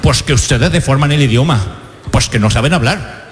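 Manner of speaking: low, scolding Castilian impression; Spanish accent from Spain. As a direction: imitate a Spaniard, lisping the C and Z. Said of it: "Todos en España nos pasó igual".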